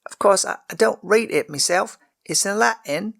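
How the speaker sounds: high, stammering, defensive; a child insisting she is good; defensive girl. A narrator's reading. Servant girl defends herself to the lord, high and defensive. The narrator continues.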